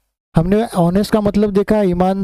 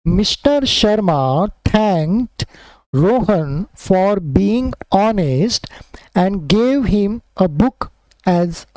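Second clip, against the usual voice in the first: slow, measured classroom reading; unhurried teacher's model reading; slow read-aloud; much slower than usual. Acted. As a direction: read it out word by word for learners. Reads the lesson text aloud.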